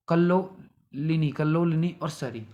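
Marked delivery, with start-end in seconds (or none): 0.1-1.3 slow spelled-out word. Shown as a demonstration. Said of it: "निम्नगा बोलते हैं और तिरणी बोलते हैं और".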